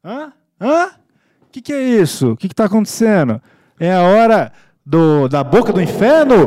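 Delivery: loud, high, hammy outburst; hammed-up shouting. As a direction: ham it up at full volume. Mock horror, loud hammed reading.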